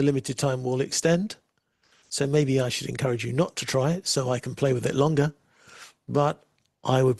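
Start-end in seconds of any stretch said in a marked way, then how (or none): none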